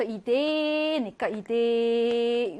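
이데 with 데 held very long; slow 이데, one long sustained e; long double vowel. Shown as a demonstration. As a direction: stretch out the e in 이데. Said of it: "중모음은 한 번만 길게 발음한다".

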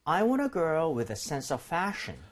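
slow, measured English for a learner to repeat; model reading. Shown as a demonstration. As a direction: read it out slowly as the teacher. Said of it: "요거 두 개 일단은 읽어볼게요". (따라 읽도록 천천히 시범 낭독)

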